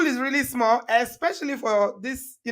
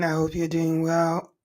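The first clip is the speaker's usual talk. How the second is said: froggy, recovering from a cold; hoarse throat after a cold. Real, not acted. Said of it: "so if I sound a little bit froggy".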